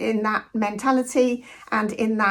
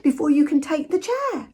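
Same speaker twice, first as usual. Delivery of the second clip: indignant British scolding; 5 semitones higher than usual. Retold or imitated. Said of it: "there's that kind of".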